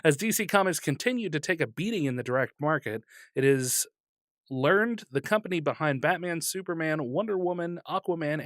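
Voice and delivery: reading a comics news item aloud. Acted. Co-host reads DC Comics news to the other, news read.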